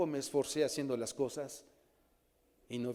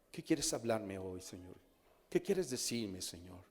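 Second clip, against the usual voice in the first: hushed prayer; 3 semitones lower, 5 dB quieter than usual. Shown as a demonstration. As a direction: pray it quietly, almost to yourself. Modela una oración silenciosa. (oración lenta y muy suave)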